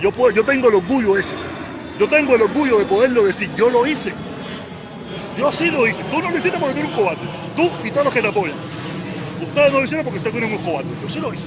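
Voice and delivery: furious yelling, high and loud; proud, outraged street shouting; angry shouting. Real, not acted. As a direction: scream it at the coward in front of you.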